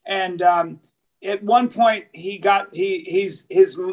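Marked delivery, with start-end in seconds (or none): none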